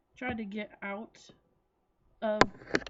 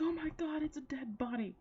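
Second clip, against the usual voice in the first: mildly panicked quote, higher at first; mock freak-out, starting higher and settling down; 6 semitones higher than usual. Pet sitter finds a tied-up kid in the closet, mildly freaked out. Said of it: "the guy freaked out".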